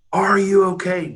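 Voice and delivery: stretched-out call at ordinary volume. Retold or imitated. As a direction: imitate a worried shout across the lake. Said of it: "now I'm getting louder and louder".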